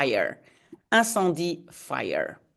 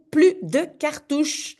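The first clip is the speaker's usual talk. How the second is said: mild character curse; 6 semitones higher than usual. Acted. Character cursing, read from comic.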